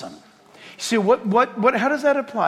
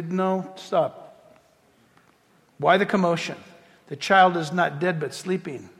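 calm correction; 3 semitones lower than usual. Retold or imitated. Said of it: "Jesus says, basically".

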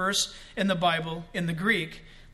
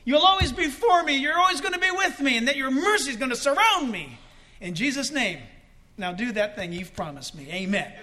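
modelled prayer; 2 semitones higher than usual. Retold or imitated. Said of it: "you take that to prayer and you say".

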